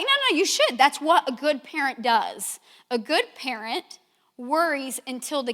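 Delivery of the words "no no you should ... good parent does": much higher and louder, insisting to her husband; retold insistent outburst. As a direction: replay the moment you snapped at him, pitched way up.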